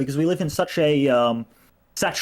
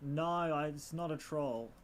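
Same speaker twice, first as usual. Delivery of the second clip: faint voice under mic hiss; distant, hissy, too-quiet microphone; quiet voice loud hiss; 10 dB quieter than usual. Real, not acted. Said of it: "No, you're super quiet".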